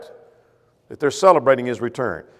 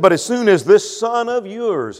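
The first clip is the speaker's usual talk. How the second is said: contemptuous quote; 5 semitones higher than usual. Retold or imitated. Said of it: "He said".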